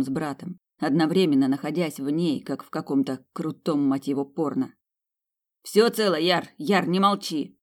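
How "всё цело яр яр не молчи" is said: worried calling. Acted. Brother calling out to fallen man.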